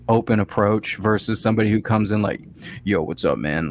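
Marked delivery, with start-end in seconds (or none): 2.8-3.7 a touch lower, casual yo greeting. Retold or imitated. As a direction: greet like a tough guy. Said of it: "a lower voice conveys".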